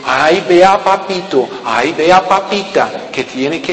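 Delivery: slow, whiny coaxing; baby someone along, whining; mocking a coddling guide. Preacher mocks someone babying believers, slow whiny coaxing. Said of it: "para decir".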